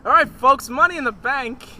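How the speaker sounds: loud, hammy radio host intro; mock radio DJ hype. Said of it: "was a radio D J voice".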